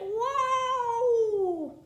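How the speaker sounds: high startled cry; startled lunch lady. Acted. Lunch lady startled by the pizza thief, high yelp. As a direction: yelp at the swooping kid. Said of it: "The lunch lady's like".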